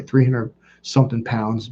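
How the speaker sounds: usual speaking voice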